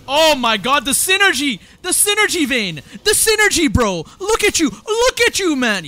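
screaming high and loud; excited hype. Real, not acted. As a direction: lose it over the play. Hype over a teamfight.

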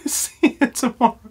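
"See you tomorrow" breaking into giggles, soft; trying to sign off but laughing. Real, not acted. Vlogger failing to sign off, giggling through it. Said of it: "Just say the damn word".

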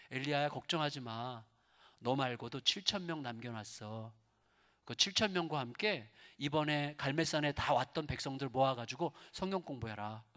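soft, low, calming voice; quiet fatherly comfort; gentle reassurance. Acted. God reassures Elijah, acted.

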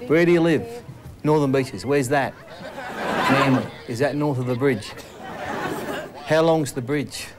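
a hint of the pest's nagging questions; imitating the pest. Fatty retelling the pest's questions, lightly mocking. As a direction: replay his dumb questions with a grin. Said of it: "that bloke was unbelievable".

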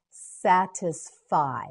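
"Satisfy" slowly as sat, is, fy; syllable by syllable. Shown as a demonstration. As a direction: separate each syllable of "Satisfy". Teacher models word by syllables.

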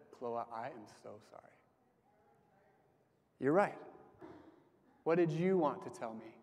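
soft, gentle, sincere apology, retold. Father apologising to his daughter, soft and sincere. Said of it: "stopped and I said".

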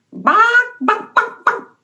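high clucking bawks; chicken clucks. Pretend. Miss Lily voicing Chicken, high clucks.

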